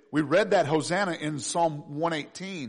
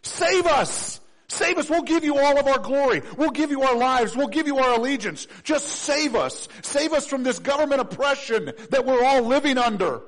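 high, loud, urgent pleading; crowd crying out; 8 semitones higher, 5 dB louder than usual. Acted. The crowd begs Jesus at the gate, loud pleading. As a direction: beg the king for rescue. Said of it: "they're saying".

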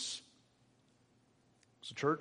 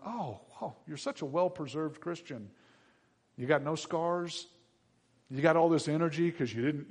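higher, building to a loud high call; mock welcome; 4 semitones higher, 10 dB louder than usual. Jesus mockingly welcoming a lazy Christian, hammed-up. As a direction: ham up a cheesy heavenly greeting. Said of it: "The alternative is not".

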